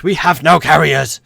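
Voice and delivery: loud, slow, high protest; indignant outburst at the game; exasperated shout. Real, not acted. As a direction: yell it word by word in exasperation. Exasperated at a useless game option.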